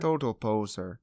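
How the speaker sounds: lightly put-on Russian accent. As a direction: echo it with a mock Russian accent. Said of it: "so my Russian accent there".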